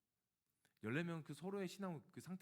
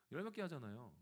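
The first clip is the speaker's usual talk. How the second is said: repeated through a laugh; sheepish laughing retort; 2 semitones higher than usual. Retold or imitated. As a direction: laugh while making the excuse. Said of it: "그럼 화낸 거죠".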